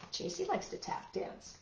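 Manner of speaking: whispered, high and soft; hushed whisper about J C; whispered aside. Real, not acted.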